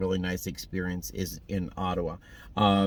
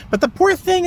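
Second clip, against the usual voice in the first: pitying; 10 dB louder than usual. Real, not acted. Pity for injured bird.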